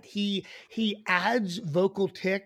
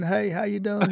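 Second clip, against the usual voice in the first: scratchy ex-president impression; lightly voiced scratchy charmer; Bill Clinton. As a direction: greet them in a scratchy politician voice. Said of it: "gonna say Bill Clinton".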